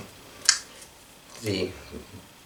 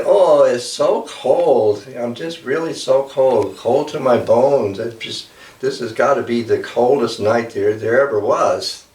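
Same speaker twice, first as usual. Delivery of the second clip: complaining mother eagle; 2 semitones higher than usual. Acted. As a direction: whine about the cold as a fussy mother bird.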